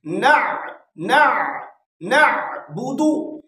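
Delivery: "ना" and "नअबुदु" with a throaty Arabic ain; clear ain. Shown as a demonstration. Teacher drilling noon with ain, "ना, नअबुदु" carefully articulated. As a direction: join n into a full ain in "ना", "नअबुदु". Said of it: "आइन को अच्छी तरह से पढ़ना".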